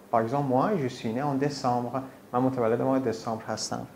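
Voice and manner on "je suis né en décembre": slow, careful French sentence; slow example sentence. Shown as a demonstration. Teacher slowly reads a French example sentence about her birthday. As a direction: spell it out slowly for a learner. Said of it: "example sentence".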